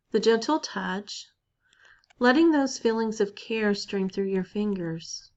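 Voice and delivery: unhurried guided-meditation voice with long pauses. Acted. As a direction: lead listeners gently inward, leaving space between phrases.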